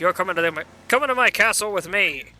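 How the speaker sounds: lightly voiced gruff villain king; a hint of a boastful monster king; Bowser voice. Voicing Bowser, game dialogue.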